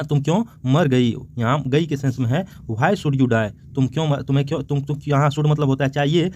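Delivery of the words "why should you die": very slow, each word drawn out; slow recitation. Shown as a demonstration. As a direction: read the line word by word for the class. Teacher recites poem line slowly.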